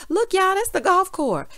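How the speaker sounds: high-pitched proud show-off imitation; mock excitement. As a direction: imitate her showing off a prized possession. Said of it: "she's very excited about that".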